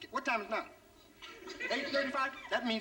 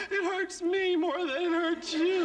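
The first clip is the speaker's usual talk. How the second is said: higher, slow mock mother voice; mother's line; 7 semitones higher, 4 dB louder, much slower than usual. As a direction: say it like a pious mom before a beating. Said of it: "my mother be talking about".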